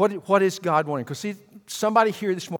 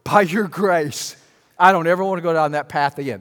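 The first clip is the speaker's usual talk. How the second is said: loud, raised plea to the Lord; acted prayer; 3 semitones higher, 8 dB louder than usual. Preacher modelling a prayer for the congregation, acted prayer. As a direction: pray aloud with earnest force. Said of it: "you can't even say".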